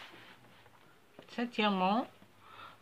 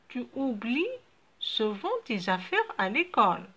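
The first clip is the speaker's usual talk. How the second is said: mother's line; slower than usual. Acted.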